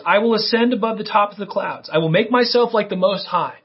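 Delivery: a hint of a proud king declaring himself; cocky king. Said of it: "This is a cocky king talking".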